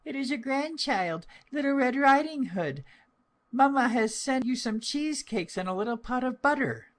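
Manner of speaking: put-on very high, sweet child's voice; bright girlish reply at the door; little girl's voice. A narrator's reading. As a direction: answer like an innocent little girl. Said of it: "so she answered".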